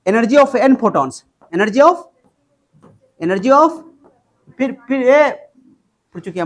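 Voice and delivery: slow, each word spaced out for notes; slow dictation. Shown as a demonstration. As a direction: spell it out slowly for the class. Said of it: "अब बताओ". (धीरे-धीरे बोलकर लिखवाना)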